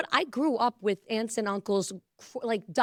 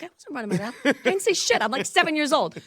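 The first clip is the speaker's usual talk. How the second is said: put-on kid protesting; 5 semitones higher than usual. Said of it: "I was like".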